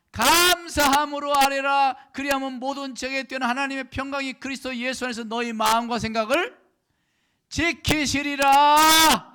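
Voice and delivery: very loud, high declamation with stretched key words; scripture shouted in preaching. Real, not acted. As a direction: proclaim the verse at full force, holding the last word long. (성경 구절을 힘껏 길게 외치는 설교)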